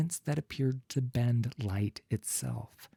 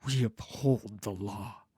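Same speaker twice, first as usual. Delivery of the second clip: menacing whisper. Acted. Vannis menaces the family.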